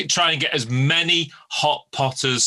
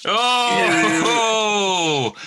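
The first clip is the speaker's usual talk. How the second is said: surprised; 9 semitones higher, 4 dB louder than usual. Real, not acted. Reacts to Monster Munch.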